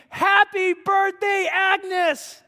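loud, high, slow festive cheer; joyful party yell; surprise shout. Retold or imitated. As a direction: shout it like the whole room yelling surprise. Crowd shouts surprise greeting.

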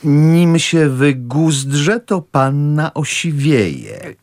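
drawn-out, deliberate reading of a letter; slow, pointed reading of the uncle's letter. Acted. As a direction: read it slowly, savouring each word. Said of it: "to ci cały przeczytam".

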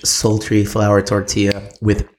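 slow, sultry food description. Pretend. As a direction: drag out each word seductively. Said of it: "Let's say it in a sultry voice".

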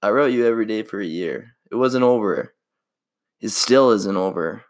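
lightly voiced movie heartthrob, earnest; Ryan Gosling impression. Friends said he sounds like Ryan Gosling, so he reads romantic lines as him. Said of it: "Okay, here we go".

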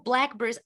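blackberries copied as "BLACK-breez"; imitated swallowed berries. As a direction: squash blackberries into two syllables. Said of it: "how you pronounced the blueberries".

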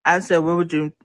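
talking with food in mouth; chewing while talking. Real, not acted. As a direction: speak around a mouthful. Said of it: "excuse me, I'm eating".

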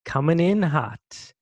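slow jingle with hissing, stretched S's; drawn-out s like a snake. Pretend. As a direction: hiss every S like a snake. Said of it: "You sounded like a snake".

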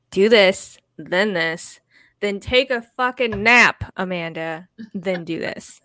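lightly voiced bossy adult giving orders. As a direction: order yourself around like a stern parent. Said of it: "needing somebody to come in and tell me".

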